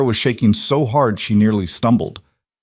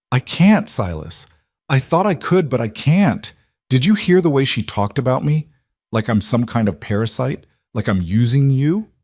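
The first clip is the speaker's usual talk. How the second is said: upset outburst; 4 semitones higher than usual. Acted. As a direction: let it all break loose. Clara breaks down, upset.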